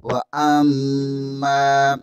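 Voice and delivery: drawn-out Quranic recitation; slow recitation. Shown as a demonstration. Teacher models the word for students, slow chant. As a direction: draw each sound out slowly, chanting.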